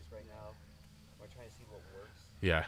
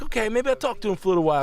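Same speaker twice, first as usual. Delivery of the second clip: much higher, fast mock-nervous confession; caving informant; 12 semitones higher, 5 dB louder, faster than usual. Friends joking, informant caves in a high hurry. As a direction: blurt it out like a cornered snitch. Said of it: "It's like".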